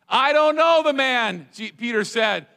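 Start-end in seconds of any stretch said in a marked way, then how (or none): 0.1-1.5 "I don't know the man" louder and higher, "know" stretched; louder denial. Acted. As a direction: insist hard on the denial. Peter's third denial, cursing.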